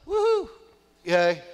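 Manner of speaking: high-pitched "woohoo"; touchdown cheer. Acted. Preacher showing his cheer when Steelers score, high excited whoop.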